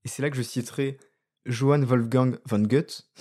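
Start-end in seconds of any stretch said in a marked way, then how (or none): 1.5-3.1 slow, careful German pronunciation of the name; attempted German accent. Shown as a demonstration. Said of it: "l'accent allemand l'est aussi".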